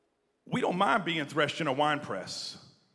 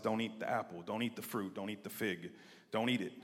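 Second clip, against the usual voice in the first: soft, low retelling of God's command; hushed God; 6 semitones lower, 8 dB quieter than usual. Retold or imitated. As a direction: lay down the rule quietly. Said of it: "God says".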